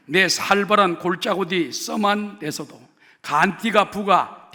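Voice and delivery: 경상도 사투리로 힘차게 낭독; Gyeongsang dialect. Shown as a demonstration. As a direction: read the psalm broad and loud in Gyeongsang dialect. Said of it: "경상도 버전을 지금 읽어드립니다".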